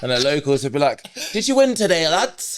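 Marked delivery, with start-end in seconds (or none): 1.3-2.6 high, jokey northern English local; northern accent. Retold or imitated. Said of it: "I don't know why I'm putting a northern accent".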